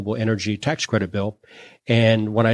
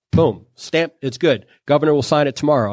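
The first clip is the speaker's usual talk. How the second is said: higher and fast, like a rubber stamp coming down; brisk official approval; 4 semitones higher than usual. Retold or imitated. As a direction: rattle it off, deal done. Treasurer approving the bill quickly.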